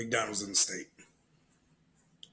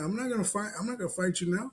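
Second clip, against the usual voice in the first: refusing a fight; 8 semitones higher, faster than usual. Retold or imitated. Worker refusing a fight during his shift, protesting. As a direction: beg off in a raised, incredulous voice. Acted argument with a challenger at work.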